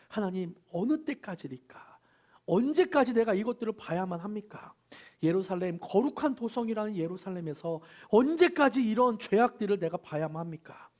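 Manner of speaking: mock crying out to God; a prophet's lament, voiced with feeling; pleading prophet's cry. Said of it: "이렇게 하소연하듯이 부르짖고".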